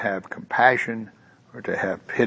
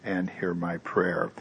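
1 hushed plea; 6 dB quieter than usual. Retold or imitated. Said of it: "And then he cries out".

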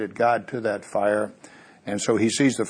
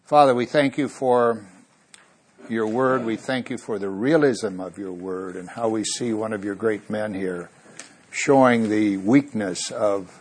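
prayer. Acted. Closing prayer.

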